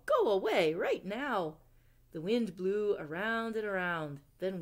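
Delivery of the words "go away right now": loud, firm order; shouting. Acted. Owl chasing Winter away, loud shout. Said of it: "shouted Owl".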